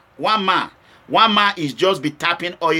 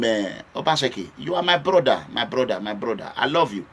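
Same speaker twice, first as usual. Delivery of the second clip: dropping to a near-murmur, lower and softer; soft pleading; 7 semitones lower, 6 dB quieter than usual. Real, not acted. Vlogger begging his brother Solo, soft and low. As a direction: plead gently with a brother you love.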